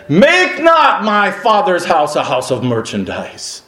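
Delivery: preaching it as Jesus' bold rebuke; commanding rebuke. Retold or imitated. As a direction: drive them out with authority. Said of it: "He raised his voice".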